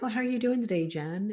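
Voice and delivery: a touch of bright, friendly small talk; lightly chirpy, to show what he was not; mock chatty greeting. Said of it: "he wasn't like".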